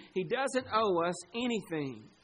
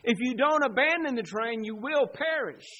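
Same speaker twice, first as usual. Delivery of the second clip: raised, urgent preacher's warning; screamed warning; 4 semitones higher, 5 dB louder than usual. Acted. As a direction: warn them forcefully, voice pitched up. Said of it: "He's screaming".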